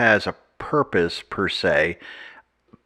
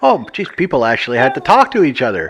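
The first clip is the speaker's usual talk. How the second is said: dry sarcastic jab; 3 semitones higher, 5 dB louder, faster than usual. Real, not acted. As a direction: say it with heavy sarcasm. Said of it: "Pardon the sarcasm".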